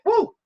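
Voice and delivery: excited whoop. Real, not acted. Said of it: "I'm getting more and more excited".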